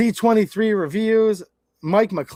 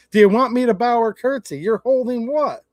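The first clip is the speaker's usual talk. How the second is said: higher-pitched sarcastic retort; mock deference; 4 semitones higher, 3 dB louder than usual. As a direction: needle them with exaggerated disbelief. Mocking retort to self-important holder.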